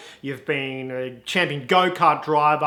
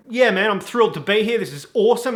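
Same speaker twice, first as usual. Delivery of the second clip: higher, quick acted thrill; so excited; 5 semitones higher, faster than usual. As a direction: gush like a thrilled new driver. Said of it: "you're, like, so excited".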